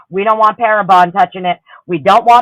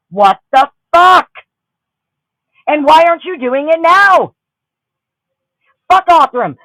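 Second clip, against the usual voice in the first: furious rant; 7 semitones higher than usual. Real, not acted. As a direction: let the anger burst out, pitched up. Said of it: "I'm crashing the fuck out over it".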